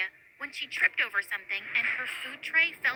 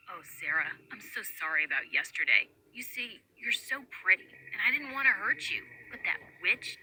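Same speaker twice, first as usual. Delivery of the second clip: lower, softer fake sweet-talk; butter her up insincerely; fake sweet apology; 4 semitones lower, 3 dB quieter than usual. Bully sweet-talks Sarah.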